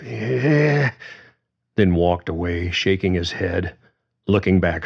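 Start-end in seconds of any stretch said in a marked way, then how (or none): 0.1-0.9 drawn-out dismissive eh; long disgusted eh. Acted. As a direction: let out a long fed-up sound. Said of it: "made a long sound of".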